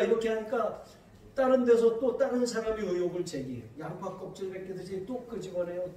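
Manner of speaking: usual speaking voice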